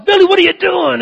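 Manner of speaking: high, loud acted yell. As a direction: yell out in alarm at your buddy. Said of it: "and he yells".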